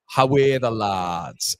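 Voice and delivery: slow, drawn-out Geordie "How are the lads"; attempted Geordie accent. Shown as a demonstration. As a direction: try a stretched Geordie cheer. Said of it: "is that Geordie?".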